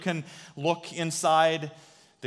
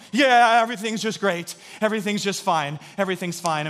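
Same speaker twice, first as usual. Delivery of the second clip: forced cheer; 3 semitones higher, 4 dB louder than usual. Retold or imitated. Scared boy covering to dad.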